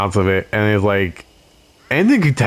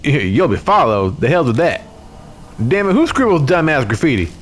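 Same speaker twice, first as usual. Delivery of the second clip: scared scowling youth; 4 semitones higher than usual. Acted. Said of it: "Shao scowls to cover how his face is deathly pale".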